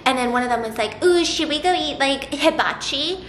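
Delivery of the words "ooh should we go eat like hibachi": put-on Mean Girls-era teen. Sister's friend suggesting dinner, imitated teen-girl talk. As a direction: imitate a cool older girl, stretching the last word up. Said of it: "the way that girls talked back then was very different".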